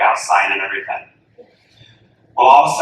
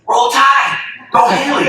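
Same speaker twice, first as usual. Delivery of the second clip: team cheer; 13 semitones higher, 4 dB louder than usual. Retold or imitated. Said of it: "the whole team says".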